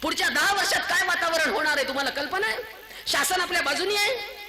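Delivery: high-pitched, challenging rhetorical questions; impassioned preaching. Real, not acted. (कळकळीचे, उंच सुरातले जाब विचारणारे प्रवचन)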